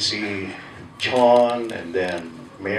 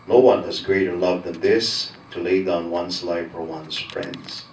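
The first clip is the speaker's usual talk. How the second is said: gospel reading. Acted. Formal gospel proclamation.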